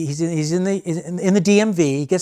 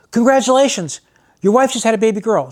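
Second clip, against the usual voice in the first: cheery nurse; 6 semitones higher, 3 dB louder than usual. Retold or imitated. Nurse announces birth.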